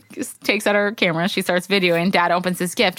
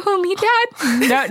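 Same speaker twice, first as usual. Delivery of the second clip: mock hurt; 9 semitones higher, much slower than usual. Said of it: "I go".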